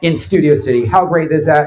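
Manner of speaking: booming mock broadcast welcome; announcer intro. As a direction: sell it like a show opener. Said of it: "I hit record".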